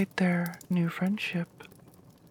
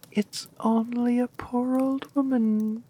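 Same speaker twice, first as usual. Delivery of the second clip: put-on higher, lightly squeaky old crone; squeaky old woman; 5 semitones higher, 3 dB louder than usual. Disguised queen calling through the door, lightly squeaky. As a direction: pitch it up like a frail old apple seller. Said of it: "came a squeaky voice".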